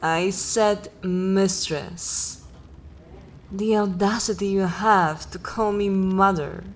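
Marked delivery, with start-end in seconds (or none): 0.0-2.4 slow, deliberate stress on "mistress"; stern correction. Acted. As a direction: draw out "I said mistress" as a haughty correction. Corrects how she was addressed.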